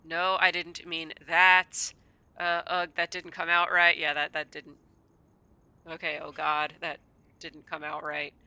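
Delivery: loud flustered backpedal, slow at first; embarrassed laughing. Real, not acted. Player backpedals after an accidental innuendo, laughing.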